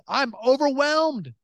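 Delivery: high, drawn-out wail of overwhelm; retold tearful plea. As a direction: act out a desperate cry to God. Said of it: "on my knees crying".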